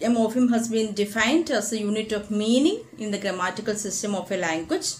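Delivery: slow, careful definition read in English; textbook reading. Shown as a demonstration. Teacher reading the definition to students, slow and deliberate. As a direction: read the definition out slowly to the class.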